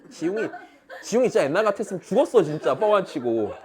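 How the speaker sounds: laughing loud and fast through the joke. Real, not acted. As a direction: blurt it out between real laughs. Laughing while joking. (크게 웃으면서 빠르게)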